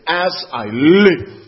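"As I live" loud and very slow; heavy, drawn-out weight on "As I live"; swearing an oath. Shown as a demonstration. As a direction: stretch "As I live" into a solemn vow. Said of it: "sounds almost as if he's swearing".

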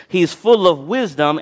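"He's full of wisdom" slow and deliberately stressed; deliberate, slowed emphasis on "full of wisdom"; emphatic. Real, not acted. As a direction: hammer home "full of wisdom", drawing it out. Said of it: "I'm emphasizing this on purpose".

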